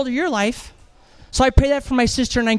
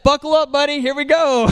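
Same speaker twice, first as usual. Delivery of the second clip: playful warning; 5 semitones higher, 3 dB louder than usual. Retold or imitated. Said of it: "I said".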